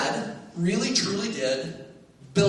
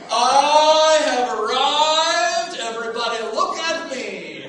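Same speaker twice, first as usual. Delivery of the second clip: loud, slow triumphant announcement; proud boast; 6 semitones higher, 7 dB louder, slower than usual. Retold or imitated. Boy showing off his bike, triumphant proclamation. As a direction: proclaim it like royalty arriving. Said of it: "And I'm just going".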